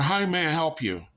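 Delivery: high-pitched, eager fast-food greeting; hammed-up service worker asking to help; customer service greeter. Worker greeting a fast food customer, chirpy service voice.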